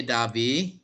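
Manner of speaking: Derby with a long open "ah"; British pronunciation. Shown as a demonstration. Teacher repeating the British form for class, British pronunciation. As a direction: say Derby as "DAH-bee". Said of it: "So the British will say".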